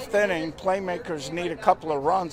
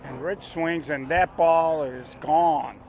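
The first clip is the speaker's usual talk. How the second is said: home run call; 3 dB louder, slower than usual. Acted.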